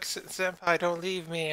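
stammered, high mock plea; mock crying plea. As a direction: plead like a crying girl, hammed-up. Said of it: "she's all crying and be like".

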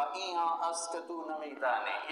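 mildly haughty dismissal; arrogant. Retold or imitated. Scholar Maulana answering the barefoot villager, arrogant. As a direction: brush off the ignorant questioner with pride. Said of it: "بڑے تکبر سے کہا".

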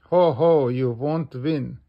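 loud acted ho-ho laugh, then taunt; narrated scoffing chuckle. A narrator's reading. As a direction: open with a hearty mock laugh. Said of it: "laughs Mister Labrador".

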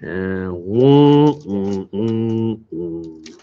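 low muffled wah-wah humming; Charlie Brown's teacher. Retold or imitated. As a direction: hum low like the Peanuts teacher. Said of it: "Charlie Brown's teacher".

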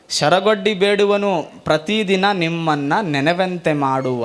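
slow devotional recitation; slow prayerful vachana intoned to the Lord; vachana recital. Acted. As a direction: chant the verse slowly, praying. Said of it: "Basavanna ಅಂತಾನೆ".

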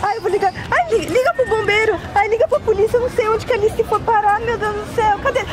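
high-pitched frantic searching; acted alarm over a lost child; panicked mother.

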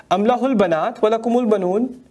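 chanted Quranic recitation, fast and flowing. Acted. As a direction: intone the verse like tajweed recitation.

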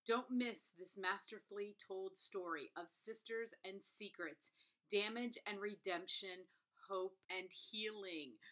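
measured read-aloud of a glowing review. Acted. Reviewer reads praise of a story of sisters, measured read-out. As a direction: read it out with deliberate phrasing.

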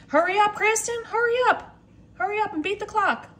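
mock urging. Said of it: "I'm like".

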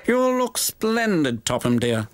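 high-pitched wife, drawing out the praise; fond wife's compliment; admiring wife. Acted. The wife's voice in story.

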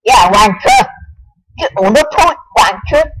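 a put-on Australian accent for a cheeky taunt. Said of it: "I'm pretty good at British. No, not British, Australian".

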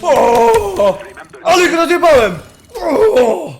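excited shout. Real, not acted. Just got a big kill.

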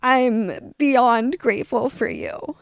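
slow, heartfelt thanks; emotional gratitude. Real, not acted. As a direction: let real gratitude slow the words down. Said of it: "I'm getting emotional about it".

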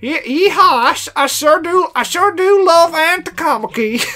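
a weak country bumpkin voice; redneck voice. Pretend. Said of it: "I can't do a redneck voice".

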